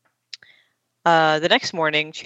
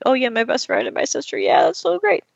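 higher, thrilled gushing; excited Joey; 8 semitones higher than usual. Retold or imitated. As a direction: gush like a delighted brother. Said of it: "Joey gets really excited".

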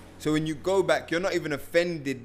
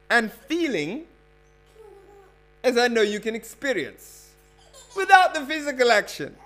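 rereading with laughter; 7 semitones higher, 5 dB louder than usual. Pretend. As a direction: try again but crack up by the end. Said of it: "let me run that again".

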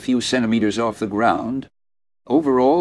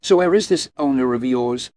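much higher, louder mocking "Oh, really?"; sneering; 5 semitones higher, 4 dB louder than usual. A narrator's reading. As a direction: scoff at his claim. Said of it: "Abby sneered".

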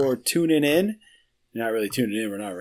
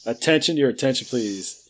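north korean newsreader. Retold or imitated. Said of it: "the telescreen paused".

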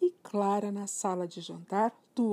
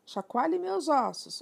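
ghost voice; 8 semitones higher, 5 dB louder, slower than usual. Acted. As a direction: parrot doing a higher, slower, louder ghost moan. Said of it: "numa imitação incrível de uma voz de fantasma".

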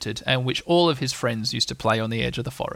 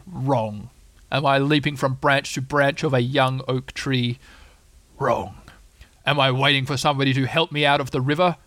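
lightly voiced weary donkey; sarcastic Eeyore.

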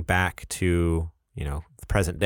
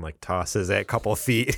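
ordinary talk

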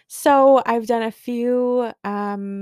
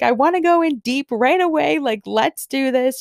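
much higher, louder gushing imitation; eager friend; 6 semitones higher, 3 dB louder than usual. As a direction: act out her rush to start. Friend's eager offer, retold.

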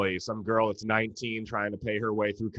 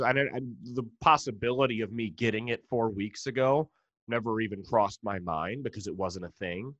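usual speaking voice

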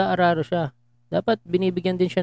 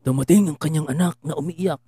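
dramatic radio narration. Acted. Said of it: "dramatic reading".

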